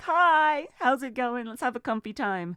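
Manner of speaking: mild sweet hello; cosy normal greeting. Shown as a demonstration. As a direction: greet chat like a comfy stream host. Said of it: "you listen to me normally and I'm just here like".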